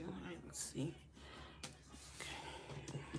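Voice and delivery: barely audible whisper. Real, not acted. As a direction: whisper it to yourself. Whispers while shuffling.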